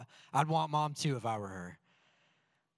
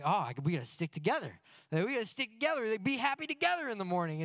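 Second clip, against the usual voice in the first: cheery rallying cry; 6 semitones higher, faster than usual. Retold or imitated. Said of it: "So it's like".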